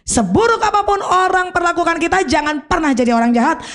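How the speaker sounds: SEBURUK lifted on a rise; stressed principle. Shown as a demonstration. Preacher restating her principle with stress on Seburuk. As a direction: lean on Seburuk as the key word. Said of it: "Saya punya prinsip ini".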